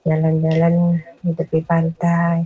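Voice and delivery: measured verse with a pause mid-line; pantun recital. Shown as a demonstration. Caller offers host another pantun, measured recitation. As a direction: recite the opening of a pantun, unhurried.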